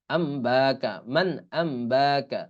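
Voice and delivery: slow, drawn-out "man ambaka"; spelled-out recitation. Shown as a demonstration. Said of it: "বানান করে নিয়েন". ("মান আম্বাকা" টেনে পড়া)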